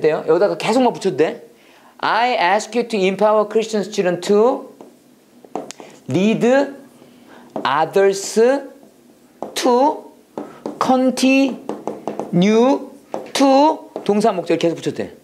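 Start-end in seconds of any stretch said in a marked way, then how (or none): 2.0-13.9 very slow, long gaps between words; drawn-out dictation. Shown as a demonstration. Teacher showing students the sentence can keep growing, drawn out slowly. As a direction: stretch each word, leave it hanging. Teacher models chaining phrases.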